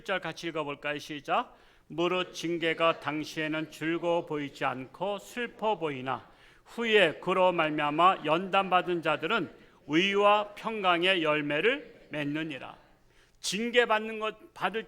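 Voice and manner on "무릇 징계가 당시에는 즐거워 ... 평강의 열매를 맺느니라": slow, deliberate scripture recitation; slow group reading. Acted. Pastor leads the congregation reading the verse, slowly. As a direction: read it together, word by word.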